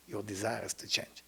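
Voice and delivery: whispered, unvoiced your desire is to change. Shown as a demonstration. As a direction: breathe the line as a secret. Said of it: "repeated line, first whispered".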